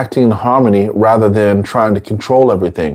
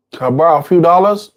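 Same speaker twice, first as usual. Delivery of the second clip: begging addict; 6 semitones higher, faster than usual. Acted. Voicing an addict asking money.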